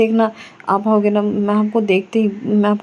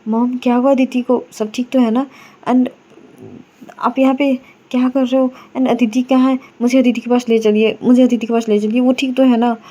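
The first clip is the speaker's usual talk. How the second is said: raised, urgent questions to mom; frantic worry; 2 semitones higher than usual. Acted. Myra at the hospital frantically asks mom to take her to Aditi. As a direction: demand to see her, voice tight with fear.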